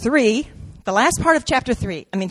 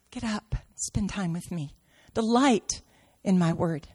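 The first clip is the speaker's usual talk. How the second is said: soft voice of God; 3 semitones lower, 6 dB quieter than usual. Acted. God's voice quoted softly.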